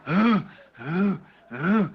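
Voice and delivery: a hollow, lightly voiced low ooh; mournful moaning. Preacher recalling the wailing creatures' moan. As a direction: moan like lost souls in the dark, understated. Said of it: "they were going".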